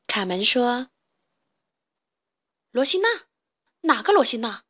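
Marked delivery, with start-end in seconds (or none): 2.7-4.6 pretending not to know her; flustered anger. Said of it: "气得语无伦次". (气急败坏地反问)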